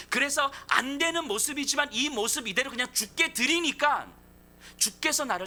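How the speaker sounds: rising, pleading sermon climax; preacher crying out to the congregation, building to a passionate peak; impassioned preaching. Acted. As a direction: drive each clause harder like a revival preacher. Preacher at full force.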